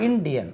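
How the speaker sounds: "இந்தியன்" with a hard English D; English pronunciation. Shown as a demonstration. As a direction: say "இந்தியன்" as in-DI-yan, tongue curled for the D. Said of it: "ஆங்கிலத்தில்".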